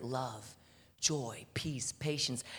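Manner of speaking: breathy whisper, almost no voice; whispered list. Acted. Preacher whispering the fruits of the Spirit to the church. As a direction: breathe each fruit like a secret.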